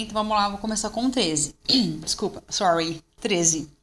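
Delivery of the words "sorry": ordinary talk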